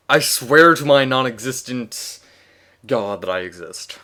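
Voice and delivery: slow mock-solemn swearing; slow solemn oath. Real, not acted. Atheist reader swearing to his non-existent god, slow mock-solemn.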